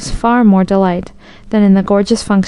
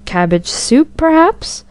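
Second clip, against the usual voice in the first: indulgent smile; 7 semitones higher, slower than usual. A narrator's reading. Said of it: "with an indulgent smile".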